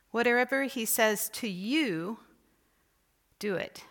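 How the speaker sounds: slow, drawn-out whatever with a rise; stress on WHATEVER, slow. Shown as a demonstration. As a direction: stretch out whatever. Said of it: "each time you emphasize a different word or phrase".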